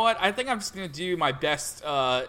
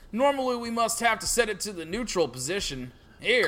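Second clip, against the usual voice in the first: stereotype farmer impression; lightly voiced country farmer. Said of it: "farmer stereotype impression".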